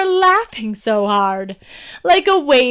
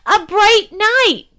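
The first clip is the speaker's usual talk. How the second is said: princess punchline; 9 semitones higher, 5 dB louder, slower than usual. Acted.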